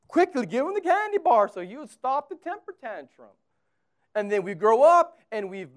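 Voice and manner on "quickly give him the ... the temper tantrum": mock frantic urgency. Miming a frantic mother's response.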